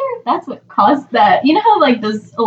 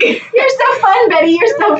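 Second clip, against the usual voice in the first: mock cheerful partygoer; 9 semitones higher than usual. Mocking Betty dancing.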